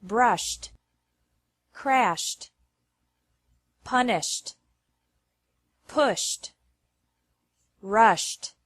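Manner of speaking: "Brushed, crashed, punished, pushed, rushed" each with a crisp final T sound. Shown as a demonstration. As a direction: sound the ending of each word as a sharp T. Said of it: "E D is pronounced like T".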